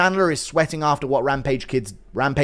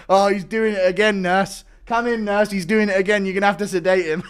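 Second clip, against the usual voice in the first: exasperated family member calling nurse; 5 semitones higher, 4 dB louder than usual. Pretend.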